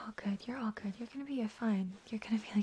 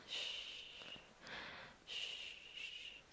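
soft repeated shushing; steady shh to soothe someone; rhythmic shushing; 14 dB quieter than usual. Acted. Soothing crying partner.

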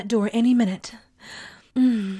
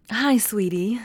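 normal talking voice

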